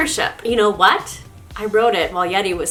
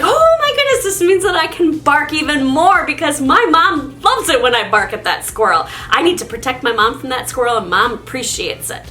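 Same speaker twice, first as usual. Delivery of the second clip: much higher, thrilled dog voice; dog believing mom loves the barking, high and excited; excited dog thinking; 4 semitones higher than usual. Retold or imitated. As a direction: gush like a proud excited dog. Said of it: "your dog is just gonna think".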